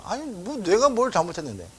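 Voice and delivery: ordinary delivery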